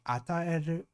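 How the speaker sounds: "Ataeru" with pitch rising after the first syllable; rising pitch accent. Shown as a demonstration. Learner copying the pitch accent, "Ataeru" said rising. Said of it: "So it's rising".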